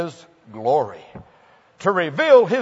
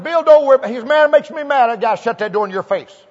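raised, higher voice, hammed-up annoyance; mock exasperated outburst; 5 semitones higher, 4 dB louder, faster than usual. Preacher retelling his own mock outburst at the rude man, hammed up. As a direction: play up the fed-up preacher. Preacher voicing himself in retold story.

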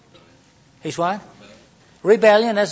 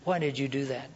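solemn, soft and lower, commanding; big leader stance; 4 semitones lower, 11 dB quieter than usual. Shown as a demonstration. Leader to follower, solemn commanding question. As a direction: ask like a stern boss. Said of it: "the big leader stance".

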